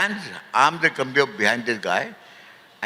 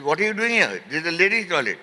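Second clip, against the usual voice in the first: acted-out scolding, pitched up; mildly indignant, higher-pitched telling-off; righteous challenge; 4 semitones higher than usual. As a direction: imitate her confronting an intruder. Retelling her righteous confrontation.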